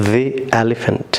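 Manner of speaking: "the" said thee, long and drawn before "elephant"; thee, very slow. Shown as a demonstration. Teacher drills "the" before a vowel, very slow. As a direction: stretch "the elephant" very slowly, thee. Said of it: "E letter দিয়ে".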